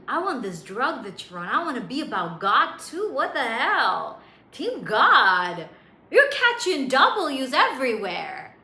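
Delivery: hyped-up friends building to loud cheering; hammed-up team rally; excited converts.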